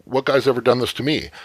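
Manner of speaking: tripping out. Acted. Woman reacting to a man walking away, tripping out. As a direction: act out a thrown, disbelieving reaction. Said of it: "kind of tripping out".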